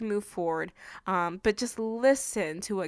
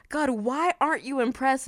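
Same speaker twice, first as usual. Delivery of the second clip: frustrated question; 4 semitones higher than usual. Retold or imitated. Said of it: "Your girl was just frustrated".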